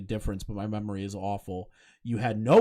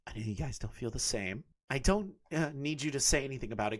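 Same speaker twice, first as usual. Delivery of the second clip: softer, hushed creepy read; 4 dB quieter, faster than usual. Shown as a demonstration. Streamer rereading the confession in a creepy voice. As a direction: read it like something lurking in the dark. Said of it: "like, a creepy voice".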